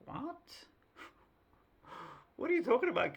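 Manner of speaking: high, incredulous pilot; baffled pilot. Retold or imitated. Pilot to boy in cockpit, high incredulous surprise. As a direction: act stunned by the child's claim. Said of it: "She's like".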